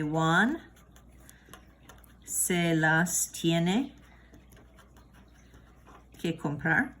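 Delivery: slow, word-by-word option A; slow model sentence. Shown as a demonstration. Teacher modelling option A of the sentence slowly. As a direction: say "se las tiene" slowly with gaps. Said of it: "So that would sound like this".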